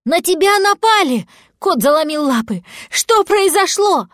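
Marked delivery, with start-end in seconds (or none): 0.0-1.3 high, loud alarmed cry. Acted. Cat sees dragon in pit. 2.9-4.1 high, loud, slowed anxious question; frightened question. Acted. Cat frightened over dragon.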